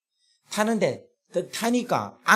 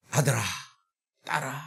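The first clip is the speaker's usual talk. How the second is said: tender call; 3 semitones lower, 6 dB quieter than usual. Retold or imitated. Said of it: "하면서 탁 안으면".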